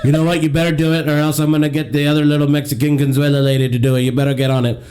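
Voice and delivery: lightly voiced Trump, boastful and taunting; a hint of Trump mocking his liberal co-host; Donald Trump impression. Host mocks the liberal co-host as Trump, lightly voiced Trump. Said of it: "It's me, the Donald".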